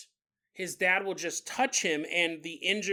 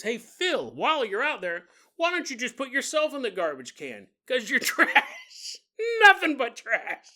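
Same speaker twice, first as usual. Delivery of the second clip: sneering taunt ending louder and laughing; mocking dad; 6 semitones higher, 5 dB louder than usual. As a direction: rub it in, cackling at the end. Dad mocks son taking trash.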